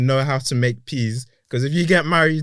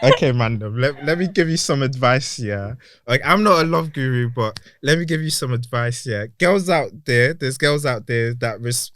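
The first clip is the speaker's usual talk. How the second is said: playful street advice voice; mock love guru. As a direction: lecture the mandem like a roadman guru. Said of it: "let me speak to the mandem quickly".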